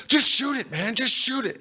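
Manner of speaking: high, frantic imitation; panicked plea. Storyteller mimicking buddy begging friend to shoot, high and panicked. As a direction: urge it in mock panic.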